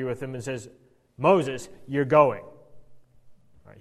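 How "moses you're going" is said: crabby God. Retold or imitated. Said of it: "God gets a little crabby".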